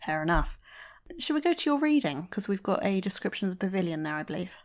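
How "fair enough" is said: whispered. Real, not acted. Quiet aside.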